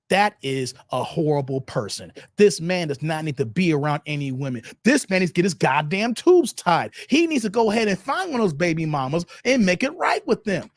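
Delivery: low, stern verdict voice; mock stern judgment. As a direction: lay down the law like a preacher. Mock voice of society judging man.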